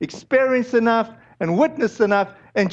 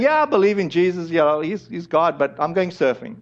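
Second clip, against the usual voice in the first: quick, offhand, dropping lower; casual twenty-year-old; 4 semitones lower than usual. Acted. Preacher voicing himself at twenty, casually uncommitted. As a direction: toss it off as no big deal. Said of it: "like me as a twenty-year-old just saying".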